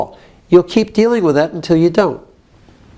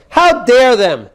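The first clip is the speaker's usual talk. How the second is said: slow, emphatic indignation; modelled outrage; 2 semitones higher, 3 dB louder, slower than usual. Shown as a demonstration. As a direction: drag out DARE. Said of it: "Is this building it up?".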